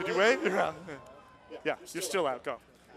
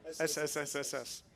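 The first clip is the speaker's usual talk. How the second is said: drawn-out s like a snake; 3 semitones lower, 6 dB quieter than usual. Shown as a demonstration. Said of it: "You know what I mean?".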